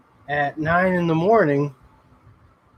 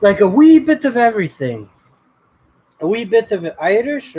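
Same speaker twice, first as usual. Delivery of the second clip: light Irish lilt, a touch louder at the start; a hint of an Irish brogue; lightly put-on Irish accent; 4 semitones higher, 4 dB louder than usual. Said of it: "I can only do an Irish accent".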